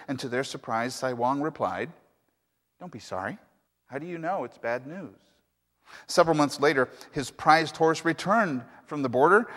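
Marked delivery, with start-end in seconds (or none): 2.8-5.2 calm. Acted. Wise old man answers neighbors.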